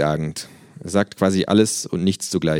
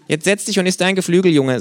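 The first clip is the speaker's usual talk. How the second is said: mouth full; 12 semitones higher, 7 dB louder than usual. Acted. Kangaroo character voice.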